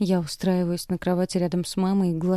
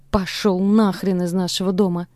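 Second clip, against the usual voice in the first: louder raw yell; 5 dB louder than usual. Acted. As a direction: shout him out of the house. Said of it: "кричу, срывая голос".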